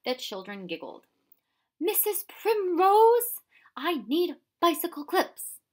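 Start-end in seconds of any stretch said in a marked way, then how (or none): 1.8-5.6 much higher, louder, slow call across the house. A narrator's reading. Professor calls out to Missus Primrose for bicycle clips, loud and slow.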